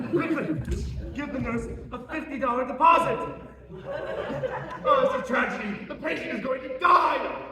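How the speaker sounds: high, loud, laughing through the words; laughing gleefully. Acted. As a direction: gloat while laughing. Doctor gloats over the patient.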